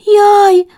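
high, loud "yai" of alarm; frightened cry. Acted. Tired chick yelps at flying to the hills. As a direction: yelp in dismay. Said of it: "додала внавка".

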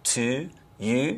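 "to, you" with Baltimore African-American vowels; Baltimore pronunciation. Shown as a demonstration. Coach showing the vowel in "to, you", Baltimore pronunciation. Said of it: "Baltimore-specific African-American pronunciation of words like".

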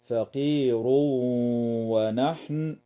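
فقير ونحن with the tanween merged into the waw with a nasal hum; idgham with ghunna. Shown as a demonstration. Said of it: "ويدغم التنوين في الواو مع الغنة". (إدغام التنوين في الواو مع الغنة)

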